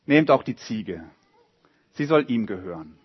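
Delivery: put-on old woman softly gifting the goat; gentle giving. A narrator's reading. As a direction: give it away quietly, moved. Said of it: "betrachtete es und sagte".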